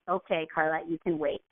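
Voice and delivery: low, slightly softened self-reassurance; calming self-talk. Retold or imitated. Hungry woman catching herself before snapping at companions, calm and low. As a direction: talk yourself down after a deep breath. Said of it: "I just took a deep breath".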